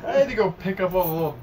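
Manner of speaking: laughing while telling. Real, not acted. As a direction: protest it through laughter.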